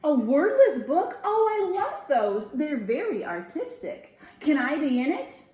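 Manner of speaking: high, loud delighted gush. Acted. Thistle excited.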